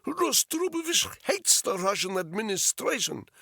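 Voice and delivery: put-on loud, high Russian-accented outburst; angry Russian prisoner nearly shouting; almost shouting. A narrator's reading. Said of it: "Polyakov almost shouted".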